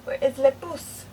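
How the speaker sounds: calling out loudly for someone. Real, not acted. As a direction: call out across the room.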